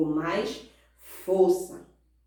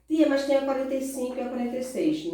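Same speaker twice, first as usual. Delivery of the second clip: slightly higher, quick pupil voice; pupil's objection; 4 semitones higher, faster than usual. Retold or imitated. Pupil questions teacher about skipped pages, mock objection. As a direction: imitate a pupil piping up quickly.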